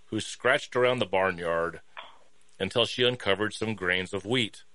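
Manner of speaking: measured storybook reading; story narration. Acted. Reading a hen fable to listeners, storytelling. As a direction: read the fable out, line by line.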